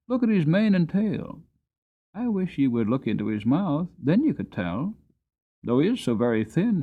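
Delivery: put-on high, insistent child's voice; a boy arguing his case; boy argues with grandfather, high and eager; eager young boy.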